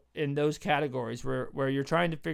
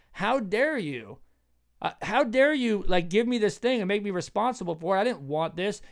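mock-outraged servant, pitched up; indignant retort; 5 semitones higher than usual. Servant rejecting the master's gift, indignant. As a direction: act out offended protest, leaning on the words.

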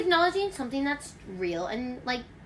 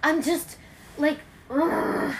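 frustrated wet anger; 4 semitones higher, much slower than usual. Shown as a demonstration. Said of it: "Wet angry is like".

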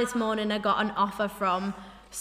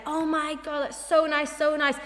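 higher-pitched gushing compliment; imitated admiration; 4 semitones higher than usual. Imitating guests admiring a cheap outfit, gushing. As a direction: coo over it in a higher voice. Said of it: "everyone's like".

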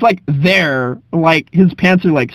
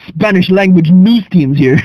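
announcer voice; 2 semitones higher, slower than usual. Retold or imitated. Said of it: "He's like".

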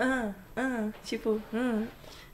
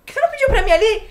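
pitched-up mock challenge; high teasing challenge; 10 semitones higher, 5 dB louder than usual. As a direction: tease him with a high voice. Challenging the guy, retold.

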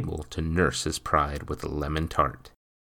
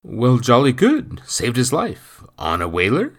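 eager, louder portly gossip; blurting fat man; 6 semitones higher, 7 dB louder than usual. A narrator's reading. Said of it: "Mister Adelson blurted".

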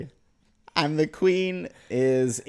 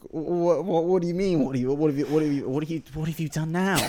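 flustered Queen; 6 semitones higher, faster than usual. Acted.

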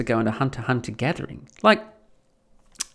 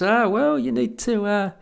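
higher, slick con man's pitch; smooth grifter; 6 semitones higher than usual. Retold or imitated. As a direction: sell it like a smooth con man. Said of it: "Grifter turns up and goes".

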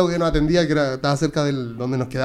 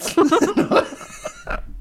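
high giggle; 13 semitones higher than usual. Real, not acted. Laughing at the apart joke.

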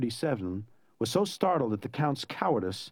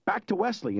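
called in flight; 8 semitones higher than usual. A narrator's reading. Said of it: "in full flight now".

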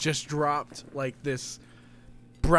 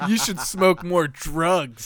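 slow mocking repeat; much slower than usual. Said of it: "You sound like such a fucking narc".

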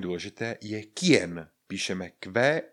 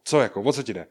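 louder, confrontational what; challenging question; 5 dB louder, faster than usual. Acted. Answering a person who stares, challenging question. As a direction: demand to know what they want. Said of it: "Někdo na vás čumí a vy na něj".

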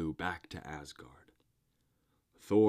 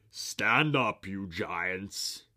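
big loud call, pitched up; shouting; 3 semitones higher, 7 dB louder, much slower than usual. A narrator's reading. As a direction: shout across the hall to his giants. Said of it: "he shouted to his companions".

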